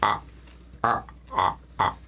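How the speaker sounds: crow cawing. Acted. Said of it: "it's like".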